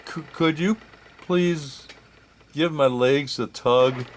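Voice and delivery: polite request. Acted. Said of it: "I very politely answered".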